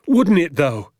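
loud, high excited shout; worked-up father shouting with delight. Acted. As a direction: shout it out with glee. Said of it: "he shouted".

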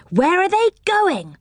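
high-pitched surprised question. A narrator's reading. Boy asks where the climbing elves are going, surprised. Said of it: "asked Rick in surprise".

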